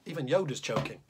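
lively, bouncy storytelling rhythm; reading a poem to children. Acted. Teacher reads the tummy troll poem to the class, playfully. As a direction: read a silly bedtime poem aloud to the kids.

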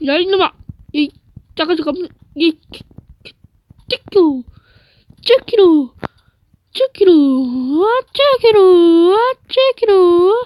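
insults building to a shout; building angry yell. Real, not acted. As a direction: start muttering, end yelling. Gamer escalating insults at enemy.

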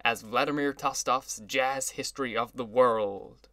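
slow, hearty announcement; lusty. Acted. Orchestra leader finishing his announcement to the crowd, hearty and slow. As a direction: belt it out with relish. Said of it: "he concluded lustily".

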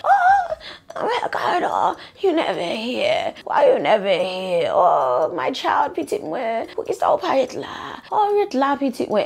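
lightly voiced pleading mother, wailing oh Ricardo; imitating his mother. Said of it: "that's how she talked".

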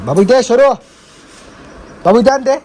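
high, loud coaxing call. Real, not acted. Calling baby Shoru over. (बाळाला उंच, मोठ्या आवाजात लाडाने बोलावणं)

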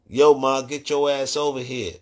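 pushy catcall with a loud attack; aggressive come-on. Acted. Imitating New York men approaching women, aggressive. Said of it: "some of 'em are aggressive as hell".

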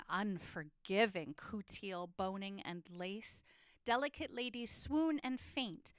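sensual, lingering recital with swells and hushes; dramatic poem reading. Acted. Teacher reading Ode to a Corset to the class, dramatic and lingering. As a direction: savour every word of the poem. Reads the poem aloud together.

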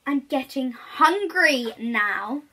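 slow, loud, drawn-out hungry wolf. Acted. Wolf admitting hunger to the creature, slow and loud. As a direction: let the hunger slip out.

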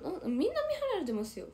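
laughing through the words, fast and high; real laughter while talking. Real, not acted. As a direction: giggle it out quickly. Laughing at viewer comment.

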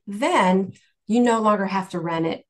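normal talking voice

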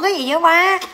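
shocked, loud and high; exasperated outcry. Real, not acted. To her prankster boyfriend, a loud shocked outcry. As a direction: cry out in disbelief at him.

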